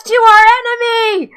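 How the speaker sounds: high, loud squeaky chipmunk battle cry; screaming chipmunks. Acted. GM voices chipmunks shrieking war cries at the barbarian. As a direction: shriek it like a furious tiny rodent. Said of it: "chipmunks just screaming out".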